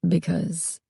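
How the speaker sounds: low, soft and hushed. A narrator's reading. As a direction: drop the voice down low. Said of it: "He lowered his voice".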